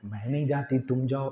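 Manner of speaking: low murmured chatter between two women; hushed whispering. Retold or imitated. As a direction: mimic them conferring in hushed tones. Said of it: "अंदर गुटपुट कर रही". (दबी आवाज़ में फुसफुसाते हुए)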